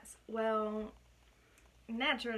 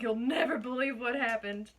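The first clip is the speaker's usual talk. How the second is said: put-on terrible British accent; 4 dB louder than usual. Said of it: "with my terrible British accent".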